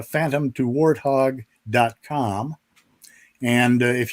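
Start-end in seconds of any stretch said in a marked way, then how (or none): 0.0-2.6 web address spelled out slowly; slow and deliberate. Real, not acted. Guest giving listeners his website, slow and deliberate. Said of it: "let me say this slow".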